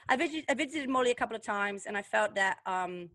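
badly faked British accent; a hint of a put-on British voice. Host pretends Molly's visits changed her, badly faked British accent. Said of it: "that's a horrible accent".

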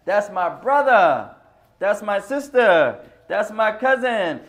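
slow, loud and warm call, each kin word falling; slow loud calls of "That's my brother", "sister", "cousin"; right way to call out. Shown as a demonstration. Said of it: "I shouldn't speak like that".

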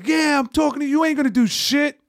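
high, jeering imitation of the heckler; mock taunt. Retelling the heckler daring them, high mock taunt. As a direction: taunt like the bike guy. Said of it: "he just goes".

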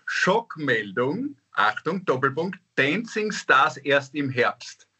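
slow dramatic headline read; mock news headline. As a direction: announce it like breaking news.

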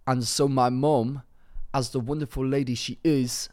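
lightly put-on London roadman accent; attempted roadman accent. Reading a listener's letter as requested, in attempted roadman accent. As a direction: read it out in a half-hearted roadman accent. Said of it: "can you do your, do it in a roadman accent".

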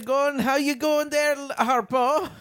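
a hint of Chico's Italian patter; Chico impression. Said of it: "I'll be Michael Palin as Chico".

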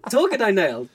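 mock Scouse, lifted pitch; a hint of a Scouse accent; imitating Colleen's Scouse. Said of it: "just go Liverpool band. Don't go Irish".

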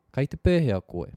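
pēhea pitched high and loud, koe dropping; rise on pēhea. Shown as a demonstration. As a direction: lift the question word pēhea, no rise at the end. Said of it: "Quite often we rise, uh, on the question word".

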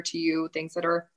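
speaking right through a small burp; talking while burping. Real, not acted. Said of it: "Sorry, I just burped".

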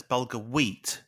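bulgur WHEAT, slow, stress on wheat; partner's odd stress on wheat. Retold or imitated. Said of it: "She puts the emphasis on the wheat".

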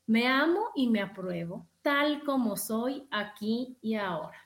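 slow, measured self-affirmation; spaced out like a mantra; deliberate affirmation. Shown as a demonstration. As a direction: say it slowly to yourself, phrase by phrase. Models a mirror affirmation.

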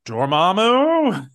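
slow, dramatic hero line; a hint of Strange's solemn voice; Doctor Strange impression. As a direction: deliver it with grave, drawn-out weight. Quoting Doctor Strange arriving.

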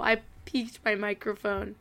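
ordinary delivery

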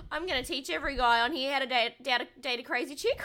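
light imitation of Brittany; a hint of Brittany's voice; imitating Brittany. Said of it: "I'm gonna try and imitate her".

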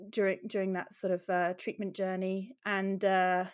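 short of breath, pausing for air; breathless, pregnant and winded. Real, not acted. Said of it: "sorry, I'm out of breath".

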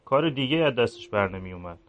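a guilty priest brooding alone at night; quiet, regretful inner voice of a priest; remorseful priest. Acted.

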